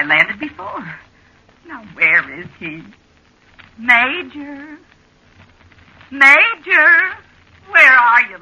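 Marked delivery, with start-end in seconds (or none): 3.8-8.4 loud high call, rising. Acted. Wife calling husband on the beach, loudly. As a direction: call him louder now.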